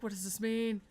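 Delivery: loud, baffled demand; loud disbelief. Real, not acted. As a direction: demand an answer at full volume. Baffled by the game's twist.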